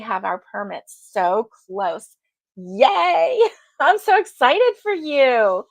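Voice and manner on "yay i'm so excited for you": squealing, laughing yay, tearing up with joy; excited for her. Real, not acted. Host cheers viewer's building news, laughing and teary. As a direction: gush with real delight, slowly. Friend's news about breaking ground.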